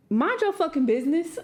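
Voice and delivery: laughing while snapping mind your business; half-laughing rebuke. Real, not acted. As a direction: scold through a laugh. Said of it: "laughing exasperation".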